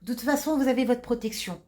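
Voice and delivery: curt, annoyed nurse; impatient nurse. Acted. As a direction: brush off the patient's call. Nurse scolds patient in acted scene.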